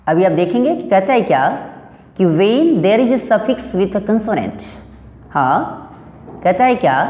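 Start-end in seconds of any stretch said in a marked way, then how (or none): 2.2-4.7 slow, careful dictation of the rule; reading the rule aloud. Shown as a demonstration. Teacher dictating the rule to students, slowly and deliberately. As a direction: spell out the rule word by word for the class.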